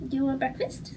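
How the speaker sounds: pet talk. Real, not acted. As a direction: Do you want breakfast in a high sing-song voice to the pet. Asks pet, repeated higher.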